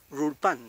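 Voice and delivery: RULPAN starting on an untrilled r; Mapuche initial r. Shown as a demonstration. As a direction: begin RULPAN with an English-like r. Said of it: "Esa es la forma de pronunciar".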